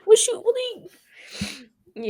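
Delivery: high, loud comic challenge; mock indignation. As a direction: act indignant for laughs. Mock challenge over zucchini complaints.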